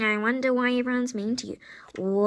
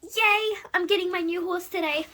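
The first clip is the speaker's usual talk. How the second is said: high, thrilled "Yay!"; bubbly excitement; excited squeal; 5 semitones higher than usual. Acted. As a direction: burst out with joy. Excited about new horse.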